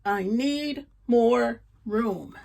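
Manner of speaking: slow, dragging miserable complaint. Acted. The cramped man complaining daily, slow miserable moan. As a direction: moan it slowly, fed up. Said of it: "in a miserable way".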